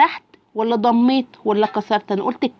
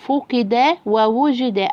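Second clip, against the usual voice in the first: somewhat quicker reading; much slower than usual. Shown as a demonstration. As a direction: still slow but more joined up. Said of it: "أسرع يا بطل".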